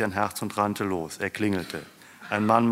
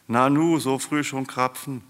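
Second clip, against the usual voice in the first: higher, louder start on a surprised question; 5 semitones higher, 4 dB louder than usual. A narrator's reading. Woman opens door to early visitors, surprised. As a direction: react with open surprise at unexpected callers.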